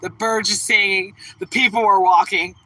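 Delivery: grumpy dog voice. Pretend. Voicing her angry male dog, mild grump. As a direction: grumble as an angry little dog. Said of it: "He's like".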